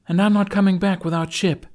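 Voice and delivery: high, loud vow; fierce, determined vow; determined promise. A narrator's reading. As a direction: swear it fiercely. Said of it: "Astrid promised".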